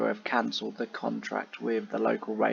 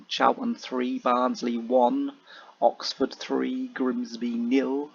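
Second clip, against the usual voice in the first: bingo caller; slower than usual. Shown as a demonstration. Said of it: "I sound like a bingo caller then".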